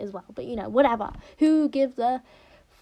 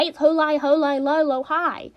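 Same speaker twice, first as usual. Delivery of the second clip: high-low demonstration; 3 semitones higher, 4 dB louder than usual. Shown as a demonstration. Gamer complaining how hard it is, bouncing pitch. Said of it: "be high, go low, then high".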